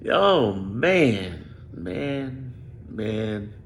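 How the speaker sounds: drawn-out dismay, fading away; overwhelmed dismay. Real, not acted. Vlogger stunned by the state of the country, overwhelmed dismay.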